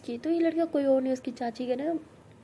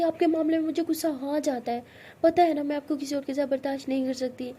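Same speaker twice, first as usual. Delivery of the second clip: jealous anger; 3 semitones higher, 3 dB louder than usual. Acted. Tara telling Siya she cannot bear others, loud jealous anger. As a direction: let the jealousy burst out.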